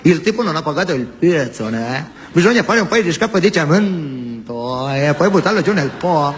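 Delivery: lightly Piedmontese mafioso; mock northern gangster; Turin accent. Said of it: "Uno di Torino".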